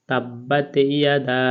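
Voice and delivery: তাব্বাত ইয়াদা slowly with ইয়াদা stretched; drawn recitation. Shown as a demonstration. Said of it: "এক আলিফ টেনে পড়তে হয়". (টেনে পড়া তাব্বাত ইয়াদা)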